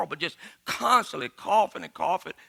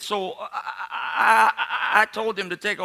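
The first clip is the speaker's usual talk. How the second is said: laughing; 3 semitones higher than usual. Real, not acted. Storyteller laughing through line.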